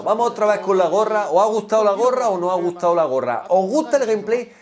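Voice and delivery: normal talking voice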